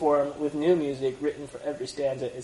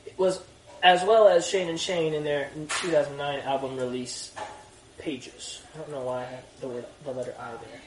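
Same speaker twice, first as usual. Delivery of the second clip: put-on British accent. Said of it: "it sounded really British".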